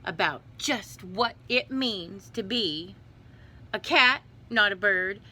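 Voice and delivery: lightly voiced lecturing mother, punched rhymes; scolding cat mother. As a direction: lecture the kitten, landing hard on each animal.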